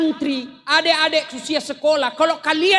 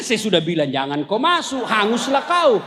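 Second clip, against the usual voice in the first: told-you-so; 5 semitones lower than usual. Retold or imitated. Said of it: "Dia bilang".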